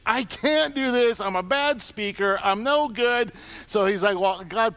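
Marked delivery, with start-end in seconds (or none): 0.0-3.3 whiny Moses. Retold or imitated. Moses voiced complaining.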